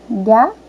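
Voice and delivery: "Gato" pulled apart into "Ga... to"; split into syllables. Shown as a demonstration. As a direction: say "Gato" in two separated syllables. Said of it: "as sílabas que formam o nome".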